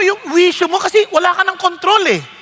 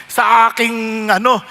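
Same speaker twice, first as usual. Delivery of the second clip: low, slow captain's announcement voice; mock pilot apologizing over the speakers; airline captain; 8 semitones lower, slower than usual. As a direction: speak down and slowly like a pilot on the intercom. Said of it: "sabi niya".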